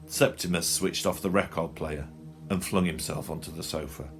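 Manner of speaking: usual speaking voice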